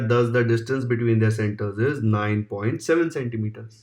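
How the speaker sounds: slow, deliberate answer dictation; slow dictated conclusion; dictation reading. Acted. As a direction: spell out the final answer line slowly. Dictating final answer line.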